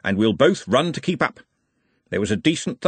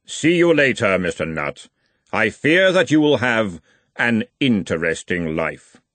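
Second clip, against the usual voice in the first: grim reaper voice. Acted. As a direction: speak as Death, unhurried. Death bids farewell.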